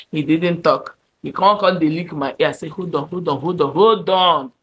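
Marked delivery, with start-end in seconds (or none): 2.7-4.5 acted-out mounting objection; building protest. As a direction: protest rising in pitch and volume. Acting out her protest as he pesters.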